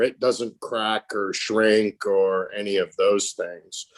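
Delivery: deadpan sarcasm, slowing as it goes on; sarcastic. Real, not acted. Trainee mocking a crappy retrofit caulking job, sarcastic. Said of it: "obviously I'm being sarcastic there".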